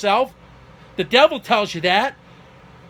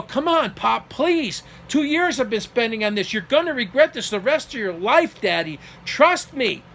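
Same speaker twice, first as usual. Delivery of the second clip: retold pleading; 3 semitones higher than usual. Son begging his father to trust him, retold pleading. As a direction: re-enact urging a parent to listen.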